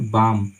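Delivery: बाम with the L left silent; long vowel straight into M in बाम; correct pronunciation. Shown as a demonstration. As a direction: say बाम as "baam", no L sound. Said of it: "इसको पढ़ेंगे".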